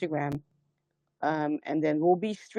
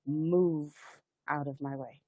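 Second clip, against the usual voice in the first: inner voice; 3 semitones lower, 6 dB quieter than usual. Shown as a demonstration. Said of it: "say in your mind and your heart".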